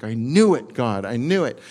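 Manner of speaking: loud mock-angry outburst; ticked off. Jonah complains loudly to God, mock angry. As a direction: vent it at God. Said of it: "Jonah is ticked".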